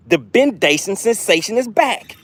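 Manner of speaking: slow, high hype call of the catch; hype announcement. Real, not acted. Angler to viewers, hyping the catch slowly. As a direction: announce it like a big return.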